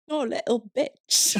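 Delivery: imitating a sneering old British lady, high and hushed; mean old landlady. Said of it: "she'd be like".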